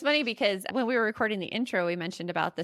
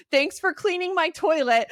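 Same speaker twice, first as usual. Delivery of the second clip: laughing repeat; 7 semitones higher, 6 dB louder than usual. Retold or imitated. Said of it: "Googling on our phone".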